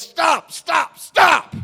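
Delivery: high, loud, escalating yells; shouted halt. Retold or imitated. Casting man shouts to stop him.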